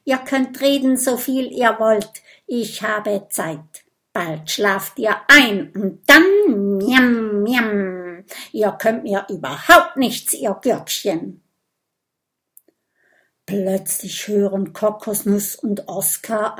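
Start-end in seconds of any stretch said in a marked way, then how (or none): 0.0-11.4 gloating snake. Acted. Snake gloats over trapped dragons.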